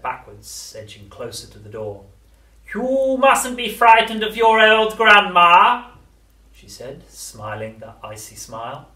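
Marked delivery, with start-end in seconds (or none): 2.7-5.9 high, very slow, coaxing crone; luring witch voice. A narrator's reading. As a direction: lure the child in slowly. Grandma luring.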